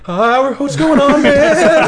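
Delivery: high, slow, strained phone voice; exaggerated cartoon intonation. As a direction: squeak it out, drawn and wobbly. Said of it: "Why are you talking like that?".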